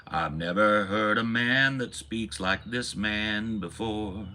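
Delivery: slow, awed praise from a starstruck believer; adoring churchgoer. Retold or imitated. Churchgoer gushing over the preacher, slow and awed. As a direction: draw it out like a dazzled congregant. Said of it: "People would say".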